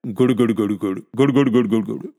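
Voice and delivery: repeated bubbling puffs; imitated hookah gurgle. A narrator's reading. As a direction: mimic a hookah bubbling as it is drawn. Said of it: "હોકલીના બે ચાર કસ ખેંચી કાઢ્યા". (હુક્કાના ગડગડાટની નકલ)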